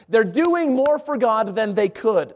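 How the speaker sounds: slowly repeated for weight; slow, weighty restatement; slow emphasis. Shown as a demonstration. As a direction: drive it home word by word. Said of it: "I want you to get this".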